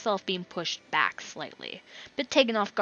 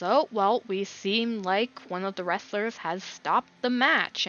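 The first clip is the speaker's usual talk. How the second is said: lightly voiced, surprised match announcer; 2 semitones higher than usual. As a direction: narrate the bout with a touch of surprise. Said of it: "the announcer looks a bit surprised as he".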